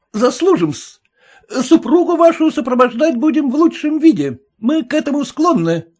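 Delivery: a servant selling himself to the merchant; boastful lackey. A narrator's reading.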